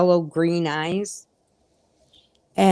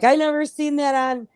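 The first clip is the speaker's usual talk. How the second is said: retold protest; 6 semitones higher than usual. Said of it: "I'm like".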